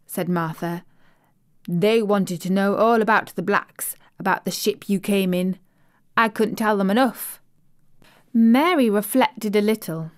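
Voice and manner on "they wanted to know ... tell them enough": lightly voiced Yorkshire housemaid, chatty and pleased; broad Yorkshire vowels, friendly and eager; Yorkshire maid. Maid telling the little girl about home, light Yorkshire accent. Martha's Yorkshire dialect speech.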